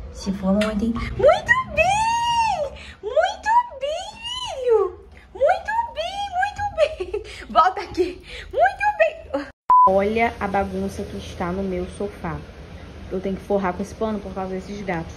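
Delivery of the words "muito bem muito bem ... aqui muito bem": squealing, very high, half laughing praise; overjoyed praise. Real, not acted. Owner praising puppy for peeing, squealing with joy.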